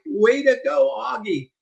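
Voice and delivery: high cheer, way to go. Retold or imitated. Parents cheering the grandson as he rides off, excited. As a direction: cheer the child on.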